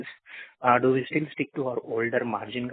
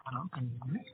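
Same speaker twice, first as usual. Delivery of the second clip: faint, far-off phone voice; very low volume on a bad line; barely audible; 13 dB quieter, faster than usual. Real, not acted. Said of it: "your voice is very low".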